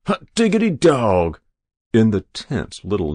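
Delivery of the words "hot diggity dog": high, loud whoop of delight; ecstatic shout. A narrator's reading. Hero leaning out the window, ecstatic. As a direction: holler gleefully, pitched up. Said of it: "he shouted down".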